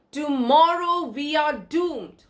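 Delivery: slow down and weigh the word tomorrow; stress on tomorrow. Shown as a demonstration. Teacher to class, stressing tomorrow as a time adverb. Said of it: "Tomorrow is modifying as well as emphasizing".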